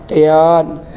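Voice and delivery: "Teon" said lisping for telor, a touch of a laugh; husband naming the eggs with a silly lisp. Retold or imitated. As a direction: say "Teon" tongue-tied and chuckling. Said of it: "Ngomongnya cadel".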